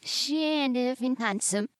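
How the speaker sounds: backwards speech. Shown as a demonstration. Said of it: "forwards sounded like this".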